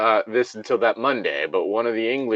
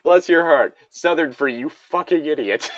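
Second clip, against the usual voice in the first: mock southern sweetness; 5 semitones higher than usual. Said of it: "he's the kind that probably says".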